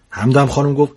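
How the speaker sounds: lively storyteller reading a funny tale; story narration. A narrator's reading. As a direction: read it like a comic bedtime story. Narrator reads humorous story aloud. (روایت داستان طنز)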